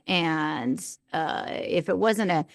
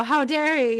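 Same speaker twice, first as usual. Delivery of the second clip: mock-offended gasp, then raised pitch; hurt indignation; 5 semitones higher than usual. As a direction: retell it with a scandalized little huff. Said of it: "I felt hurt. I felt like".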